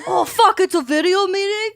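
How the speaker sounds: high, startled retold question; startled realization. Retold quote, mouth full.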